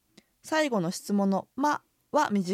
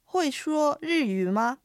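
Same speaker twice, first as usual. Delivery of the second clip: higher, very slow model reading; pronunciation practice; 6 semitones higher, much slower than usual. Shown as a demonstration. Teacher models the sentence for repetition, slow and careful. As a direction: stretch every tone clearly for learners. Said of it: "発音と合わせて練習してみましょ".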